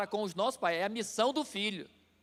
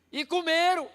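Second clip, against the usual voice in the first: higher, louder punchline; animated exclaim; 9 semitones higher, 6 dB louder than usual. Retold or imitated. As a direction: land it with a laughing punch. Pregador conta visita com comida. (exclamação animada, mais alta e mais forte)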